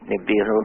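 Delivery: Nibiru said nih-BEE-roo; demonstrated pronunciation. Shown as a demonstration. Guest telling host how he says it, Nibiru as nih-BEE-roo. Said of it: "I pronounce it".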